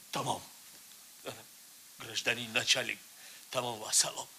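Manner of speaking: soft, low and spent; drained quiet close. Acted. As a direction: let it die out. Suspect ends confession, drained.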